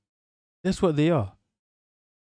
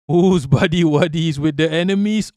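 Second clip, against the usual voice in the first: louder, breaking into a laugh on "Who's"; 2 semitones higher, 5 dB louder than usual. Real, not acted. Cracking up at his own joke, laughing. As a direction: laugh through the question. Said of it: "repeats the question laughing".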